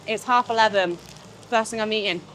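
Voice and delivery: talking while chewing; words round a bite of food; mouth full. Real, not acted. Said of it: "Don't talk with your mouth full".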